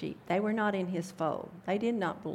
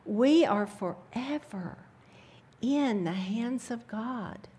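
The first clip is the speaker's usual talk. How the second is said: awed whisper. Real, not acted.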